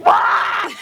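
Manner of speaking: high, loud, cracking exclamation; mock shocked what. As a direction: yelp it out in disbelief. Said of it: "And I'm like".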